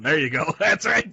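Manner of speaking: laughing through the words. Real, not acted. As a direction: laugh while saying it. Laughing at own joke.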